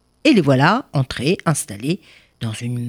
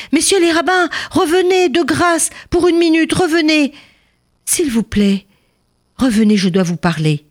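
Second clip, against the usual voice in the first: calling them back; 12 semitones higher than usual. Acted. Miser calling rabbis back.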